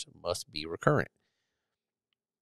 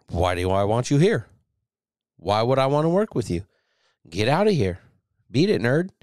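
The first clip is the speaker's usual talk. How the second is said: a touch louder and higher, brushing the sailor off; mock toxic boss; 4 semitones higher, 4 dB louder than usual. Mock toxic leader telling a sailor to get lost, louder and higher. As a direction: play a self-centered leader shooing someone away.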